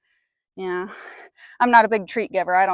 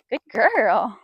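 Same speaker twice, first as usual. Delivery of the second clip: whispered praise. Real, not acted. Rider whispering praise to the mare. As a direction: breathe the praise gently to her.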